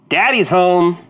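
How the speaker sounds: big booming entrance; big and loud. Acted. Player makes his character's big entrance, big and loud. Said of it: "come in big and loud".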